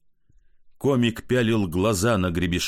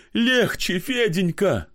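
much higher, slow pleading; 10 semitones higher, slower than usual. Acted. Pochechuev calls from another room, anxious and high.

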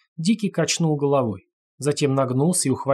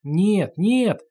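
higher, louder howled protest; howling no; 7 semitones higher, 3 dB louder than usual. A narrator's reading. The prisoner howls as he is dragged into the dark room. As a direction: howl the no as you're dragged inside. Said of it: "взвыл он".

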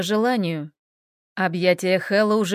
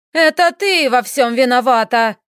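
loud furious shout; 3 semitones higher, 6 dB louder than usual. A narrator's reading. Lady Marit screaming at her son's vampire wife. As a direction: yell the blame at her. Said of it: "закричала леди Марит".

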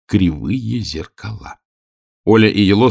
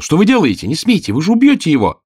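much higher and louder, urgent outcry; shouting in protest; 10 semitones higher, 5 dB louder than usual. A narrator's reading. Girl shouting at the overseer to stop the whipping. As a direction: stop him with your voice. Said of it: "крикнула".

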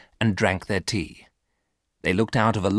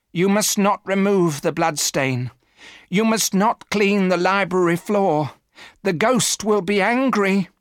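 much higher and louder, urgent pleading; frightened warning; 11 semitones higher, 3 dB louder than usual. A narrator's reading. Housekeeper pleads with the family, higher, louder and afraid. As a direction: beg them not to touch the stain.

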